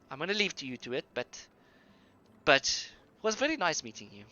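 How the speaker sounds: a touch of a sweet-talking barkeep; tavern keeper Hannah's accent. Acted. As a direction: welcome the troupe warmly in a put-on accent. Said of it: "let me get this accent again".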